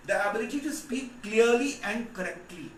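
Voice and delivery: slow, deliberate dictation with clearly stressed. Shown as a demonstration. Teacher dictating definition slowly to class. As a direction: read it out slowly so they can write. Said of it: "देखो ध्यान से".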